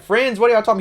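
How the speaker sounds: high-pitched mock disbelief; incredulous, voice shooting up. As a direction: throw it back as a baffled question. Acted disbelief, retold.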